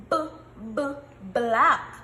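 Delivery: "b, b, black." with the b pulled apart, loud on black; sound out b. Shown as a demonstration. Teacher sounding out a word for pupils. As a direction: isolate the b then the word. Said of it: "And you hear the".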